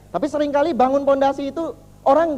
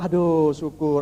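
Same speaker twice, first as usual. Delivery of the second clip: lower, sighed-out acted relief; relieved king; 6 semitones lower, much slower than usual. King spared from being boiled, relieved. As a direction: let the relief settle in.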